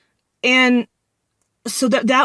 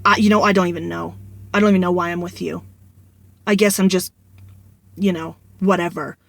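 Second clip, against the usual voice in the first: dead serious; 2 semitones lower, faster than usual. Retold or imitated. Boyfriend answering why he stays, mildly imitated dead seriousness. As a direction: say it matter-of-fact, fading out at the end. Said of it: "he'd look at me dead serious and go".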